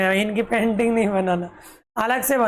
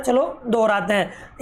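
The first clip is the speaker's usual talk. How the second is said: slow meaning. Shown as a demonstration. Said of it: "इसको रिसीट नहीं बोलना है".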